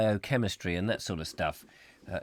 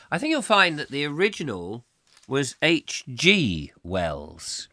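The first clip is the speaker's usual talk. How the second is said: whispered correction; 2 semitones higher than usual. Pretend. Pedantic correction to listener.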